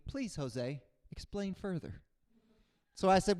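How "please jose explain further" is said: mock polite plea. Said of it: "I took that face to mean".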